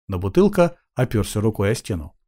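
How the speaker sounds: usual speaking voice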